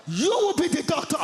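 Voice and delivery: bright, high mum announcing; proud mum voice. Retold or imitated. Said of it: "she turns to my younger brother".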